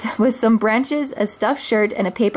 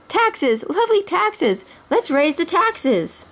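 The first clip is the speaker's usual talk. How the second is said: much higher, slow, savouring each word; the sheriff tempting Prince John with greedy glee; greedy relish; 9 semitones higher, slower than usual. Acted. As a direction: drool over the money to come. Greedy sheriff proposes taxes.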